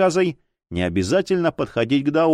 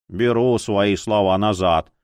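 low grudging grumble; lightly voiced grumpy retraction; grumbling; 5 semitones lower than usual. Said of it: "ворчливо ответил ей повар".

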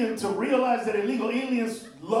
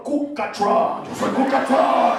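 mock villain voice; 7 dB louder, slower than usual. Salvadoran villain name.

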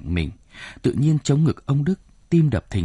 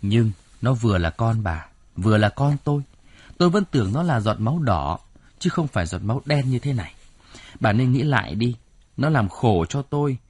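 stern, pressed voice. Acted. Husband rebukes wife over their son, stern. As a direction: lay down the law, then drop to a hush. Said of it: "Ông Đức dằn giọng".

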